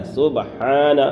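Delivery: سبحان with a breathy, audible ha; سبحان said as sub-haan with a clear ha. Shown as a demonstration. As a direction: let the ha in سبحان be heard. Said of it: "ہا کو ظاہر کرنا ہے".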